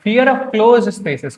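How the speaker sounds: slow teacher dictation. Shown as a demonstration. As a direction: read it out slowly for students to catch. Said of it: "close spaces क्या हो सकता है?".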